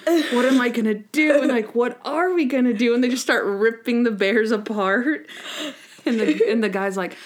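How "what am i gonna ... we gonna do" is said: mock wailing. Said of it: "they both just start, like, going".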